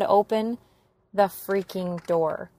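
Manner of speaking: loud demand. Retold or imitated. Demanding she opens the door.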